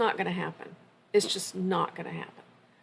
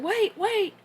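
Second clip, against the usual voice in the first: retold yelling; 11 semitones higher than usual. Professor hailing departing parents across the quad, mock yelling. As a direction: imitate someone calling out from a distance. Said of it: "I hear somebody yelling".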